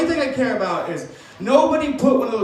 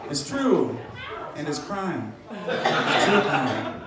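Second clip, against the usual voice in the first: mock deep pronouncement; 6 semitones lower, much slower than usual.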